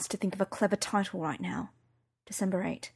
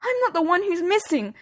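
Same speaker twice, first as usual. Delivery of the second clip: higher, tearful, fading away; voice breaking; 10 semitones higher than usual. Acted. Daughter fearing for Sherlock, voice breaking. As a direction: let it crack and trail off. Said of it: "I couldn't finish".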